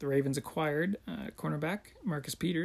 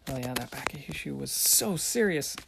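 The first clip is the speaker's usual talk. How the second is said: sarcastic. Pretend. Sarcastic mock after back issues.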